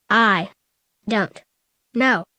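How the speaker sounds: weak crackly rasp; crackly, drained voice. Acted. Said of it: "with a crackly sounding voice".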